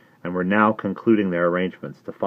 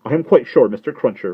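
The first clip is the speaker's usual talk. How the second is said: put-on high, loud, anxious old lady; agitated Miss Pross; 5 semitones higher, 8 dB louder than usual. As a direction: fret at him in a much higher voice. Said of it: "returned Miss Pross".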